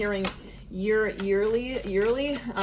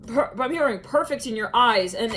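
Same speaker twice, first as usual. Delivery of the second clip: ordinary talk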